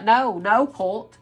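a hint of playful sass with a laugh; mock scolding. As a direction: tease the cult as you turn them away. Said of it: "you'll be like".

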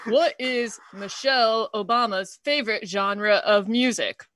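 lightly attempted presidential impression, halting phrases; Obama. Comic reading a joke to friends, lightly imitated halting president. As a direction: deliver it like a hesitant statesman, with pauses. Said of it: "deliver them in an Obama impression".

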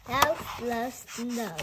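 "Mouse loves snow" said slowly and evenly, word by word; slow title read. Shown as a demonstration.

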